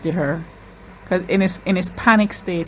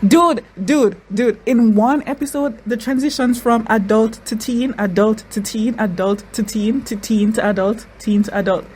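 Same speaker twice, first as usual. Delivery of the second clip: excited; 4 semitones higher than usual. Real, not acted. Excited about the transitions.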